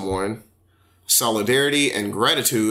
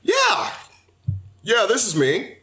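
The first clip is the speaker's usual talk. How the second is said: higher-pitched polite phone manner; interview voice; 5 semitones higher than usual. Acted. Answering a call about a job interview, interview voice. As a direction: put on your best interview voice. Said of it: "you have your interview voices".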